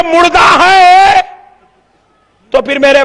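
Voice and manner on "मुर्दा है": emphatic shout. Retold or imitated. Preacher booms the sermon's key line to the crowd, shouting slowly. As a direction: drag it out like a proclamation.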